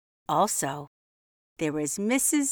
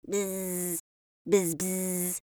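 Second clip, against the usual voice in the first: soft, quiet buzzing bee; 5 dB quieter, much slower than usual. Acted. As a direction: buzz it softly like a bee. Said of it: "said the bumblebee".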